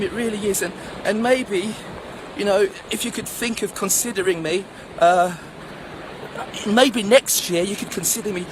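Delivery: acted youngster begging politely for a chance; earnest pleading. School leaver phoning IBM for a chance, earnest pleading.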